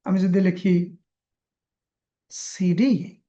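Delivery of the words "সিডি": সিডি with ডি stressed and held; stress on last letter. Shown as a demonstration. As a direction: lean on the ডি in সিডি. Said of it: "এই ডিটা জোরে বলতে হবে".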